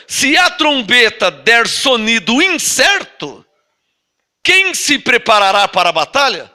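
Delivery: slow, weighty reading of the Bible verse; slow scripture reading. Acted. Pastor reading Corinthians to the church, slow and solemn. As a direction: read each clause slowly, as holy text. Reads scripture aloud slowly.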